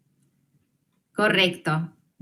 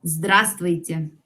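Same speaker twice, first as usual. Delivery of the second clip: Здравствуйте said slowly, every sound clear; slow model word; 4 semitones lower, slower than usual. Shown as a demonstration. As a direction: spell out Здравствуйте slowly for learners. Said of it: "¿Qué les digo?". (pronunciación lenta y clara)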